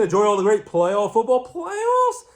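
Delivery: high, slow Austrian action-hero bark; slow Austrian action-star voice; Arnold Schwarzenegger impression. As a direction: ham up the Austrian strongman voice. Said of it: "Arnold Schwarzenegger, he has taken over".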